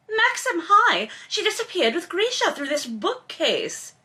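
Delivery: chirpy Henry. A narrator's reading. Henry chirps to Maxim, high and cheery. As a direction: pitch it way up like a carefree friend.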